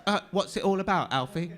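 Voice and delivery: loud, high-pitched comic impression; hammed-up, exasperated impersonation of a film star; Michael Caine. Actor mocking the producers' request, hammed-up Caine voice. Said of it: "can you sound like Michael Caine?".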